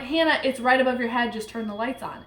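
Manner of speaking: quick, mildly annoyed retold instruction; brisk and unafraid, dropping away at the end. Telling frightened Hannah to switch on lights, annoyed. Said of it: "I'm annoyed".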